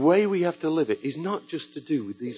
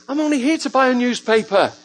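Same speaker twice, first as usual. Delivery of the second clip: high, loud, laughing inner protest; laughing disbelief; 10 semitones higher, 5 dB louder than usual. Retold or imitated. To himself when God sends a message, laughing disbelief. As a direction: laugh as you say it, caught off guard.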